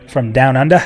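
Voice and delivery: put-on Aussie twang; mock Australian accent; bad Australian accent. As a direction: slip into a hammy Australian accent. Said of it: "a really bad Australian accent".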